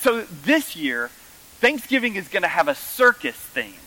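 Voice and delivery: imitating mom. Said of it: "She says".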